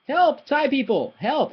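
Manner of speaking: high comic call for help; mock cry for help. Calling Thai viewers for help, mock plea. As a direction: plead to Thai viewers, playfully. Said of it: "calling to Thai viewers".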